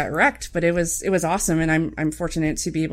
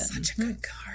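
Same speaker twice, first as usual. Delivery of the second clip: whisper; 5 semitones higher, 9 dB quieter than usual. Real, not acted. Aside while co-host talks.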